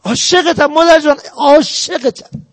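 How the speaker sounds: drawn-out, tender I love you, slowing at the end; tender declaration. Shown as a demonstration. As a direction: stretch «عاشقتم» slowly, lovingly. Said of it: "بگو". («عاشقتم» کشیده و آهسته، با محبت به مادر)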